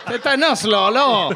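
put-on Quebec regional accent from Lac-Saint-Jean. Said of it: "Like they say in Lac-Saint-Jean".

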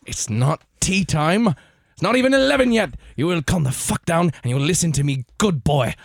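bossy mock Brit scolding; British accent, lightly done. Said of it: "accent britannique".

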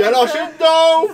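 very high, loud comic yell; mock-scandalized high shout; hammed-up outcry. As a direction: shout the accusation across the office. Acted outcry in a smelly office.

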